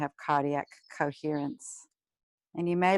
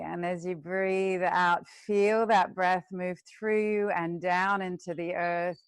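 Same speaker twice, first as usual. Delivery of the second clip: guided meditation. Acted. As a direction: lead the class gently into the breath. Teacher leads breathing meditation.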